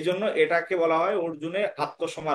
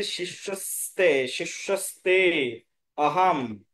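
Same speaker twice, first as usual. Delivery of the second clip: শিষ্যস্তে slow and repeated, then আহম apart; emphasis on key phrase; slower than usual. Shown as a demonstration. Teacher stressing the crucial word, শিষ্যস্তে slowly drawn out. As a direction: dwell on শিষ্যস্তে, pause before আহম. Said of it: "এই শব্দটা খুবই গুরুত্বপূর্ণ".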